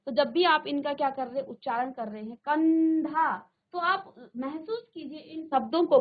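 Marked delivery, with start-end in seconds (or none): 2.4-3.4 कंधा with the n sounded through the nose; nasal anusvara. Shown as a demonstration. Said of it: "आपके नाक से बाहर आती है".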